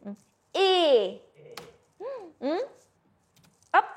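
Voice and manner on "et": closed, drawn-out vowel on "Et"; closed é sound. Shown as a demonstration. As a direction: say "Et" as a long French é, mouth less open. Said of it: "My mouth is like that". ("Et" en é fermé, allongé)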